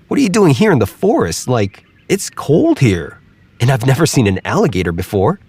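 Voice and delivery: high, wary questions; a squirrel nervously probing; doubtful squirrel. Acted.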